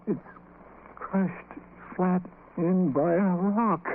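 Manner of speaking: halting, hushed dread; words failing in shock; stunned horror. Acted. Landlord stunned by the corpse.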